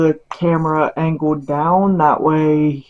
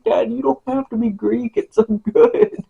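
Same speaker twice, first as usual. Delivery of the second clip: excited praise; 7 semitones higher than usual. Retold or imitated. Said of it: "and I'm like".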